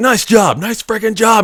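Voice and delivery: very high, screaming drill-sergeant voice. Retelling a scene with a scared kid, acting out screaming. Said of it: "he's still screaming".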